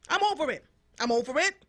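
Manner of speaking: exasperated, done with it; fed up. Real, not acted. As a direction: let them hear you've had enough. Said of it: "You can hear it in my voice".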